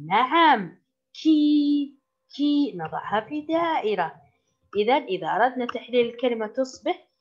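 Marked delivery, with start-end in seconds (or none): 1.1-2.0 كي held long on a steady, raised ee; long vowel. Shown as a demonstration. Teacher showing pupils the long sound, كي drawn out. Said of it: "هل يوجد فيها صوت طويل". 2.4-2.7 كي with a lengthened ee; long vowel. Shown as a demonstration. Teacher pointing out the long sound, كي stretched. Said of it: "هل يوجد فيها صوت طويل".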